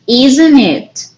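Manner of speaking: "isn't it" falling away at the end; sure tag question. Shown as a demonstration. Teacher tagging This is your car, sure falling intonation. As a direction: state "isn't it" as a confident check, dropping the end. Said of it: "when we are sure of the answer".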